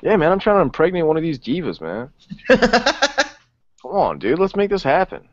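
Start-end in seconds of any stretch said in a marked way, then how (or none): 2.5-5.3 high, laughing, playful begging; laughing plea. Acted. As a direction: beg through a laugh. Joking lusty plea, laughing.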